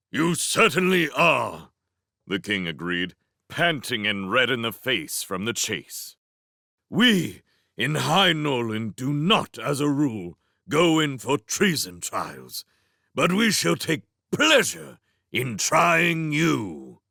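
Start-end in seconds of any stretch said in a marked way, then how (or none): 0.1-1.7 put-on stately old king. King agreeing, out of breath. 6.9-17.0 slow, grand royal voice; stately king. Acted.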